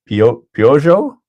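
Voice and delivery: "Peugeot" as "pyo-zho", halting, rising question; trying a pronunciation. Shown as a demonstration. Streamer reads Dirk's spelling aloud, trying a pronunciation. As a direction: sound out "Peugeot" slowly with a pyo start. Sounding out viewers' phonetic spellings.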